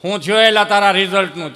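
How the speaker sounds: loud gruff question; a loud stern father; stern demand. Acted. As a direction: bark at the son about results.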